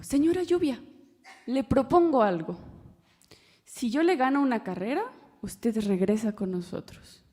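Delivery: a hint of a bold little deer making a deal; brave young deer. Brave deer challenges Lady Rain.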